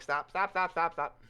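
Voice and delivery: high, loud pleading; begging stop. Acted. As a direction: repeat stop desperately. Knight begs robot.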